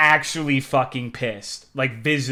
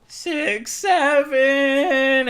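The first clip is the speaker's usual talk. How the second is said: meme voice; 12 semitones higher, 6 dB louder, much slower than usual. Pretend. Meme call-out, high put-on voice.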